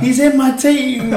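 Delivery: high, loud, drawn-out wail; retold outburst. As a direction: cry it out like an upset fan. Retelling own pub outburst.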